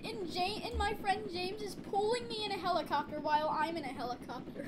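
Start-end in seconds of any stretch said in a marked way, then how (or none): 0.0-2.3 excited. Real, not acted. Sudden outage, excited announcement.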